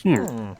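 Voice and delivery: swooping villager hum; villager noise. Acted. Co-player joining in on villager noises, mimicked hum. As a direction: answer with a game villager's hum. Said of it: "Villagers making villager noises".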